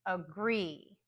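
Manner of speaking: careful model of Agree, weak start, strong end; last-syllable stress. Shown as a demonstration. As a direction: Agree with a schwa A and full, stressed GREE. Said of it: "words where the last syllable is".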